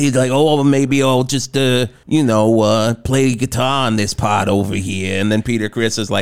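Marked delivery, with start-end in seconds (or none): 0.3-5.2 put-on light Brooklyn accent, hesitant; imitating a guitarist. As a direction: lightly impersonate a Brooklyn rocker. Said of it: "like, a Brooklyn accent".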